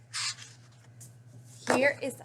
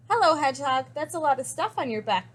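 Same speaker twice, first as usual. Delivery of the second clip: croak; 3 semitones higher, faster than usual. Acted. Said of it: "croaked Frog".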